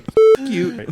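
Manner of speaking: high, loud mock scream; sudden high-pitched shouted curse; retold scream. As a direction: yell it up high like a furious teammate. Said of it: "he just kept screaming at Jonathan".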